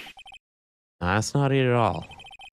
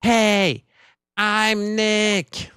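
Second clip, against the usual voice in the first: called out higher and louder; louder greeting; 9 semitones higher, 3 dB louder, much slower than usual. Shown as a demonstration. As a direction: say it loud enough to trigger the mic. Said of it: "Maybe I'm not saying it loud enough".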